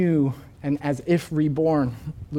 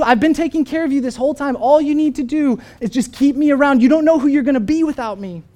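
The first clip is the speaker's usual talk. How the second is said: much higher and louder, clingy pleading creature; wheedling lizard; 9 semitones higher, 8 dB louder than usual. Retold or imitated. Lizard begging the man not to let it die, high and wheedling. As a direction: coax him like a needy pet. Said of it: "The lizard says".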